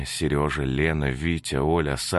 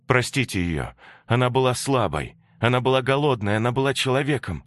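higher, insistent plea; Katya pleading; 7 semitones higher, 3 dB louder than usual. Acted. Katya defends Antonina to Masha, higher insistent plea. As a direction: press the children to forgive.

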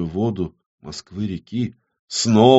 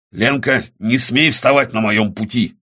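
mild snarl of warning; a threat with a touch of snarl. Acted. Авадонна warns Ленка off his path, snarling. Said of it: "ощерился Авадонна".

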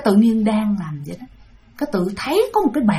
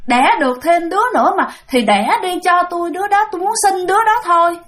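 whiny lament; 4 semitones higher than usual. Retold or imitated. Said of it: "bà nói".

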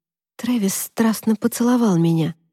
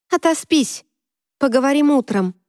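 angry yell; 6 semitones higher than usual. Acted. Drunk girl yelling at Travis.

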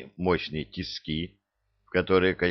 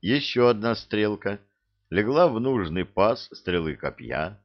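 usual speaking voice

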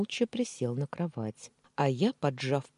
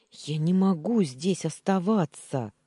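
desperate cry; 5 semitones higher, 6 dB louder than usual. Acted. Captive panics to the maid.

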